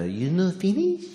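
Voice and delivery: put-on high, soft Japanese accent, "Finnish" for finish. Comedian mimicking a Japanese waitress's accent. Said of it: "I have to do the accent".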